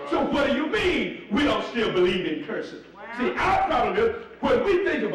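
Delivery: shouted challenge to the congregation; fired-up preacher shout; preaching shout. Real, not acted. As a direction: throw the question back at them, full voice. Preacher rebuts the doubter.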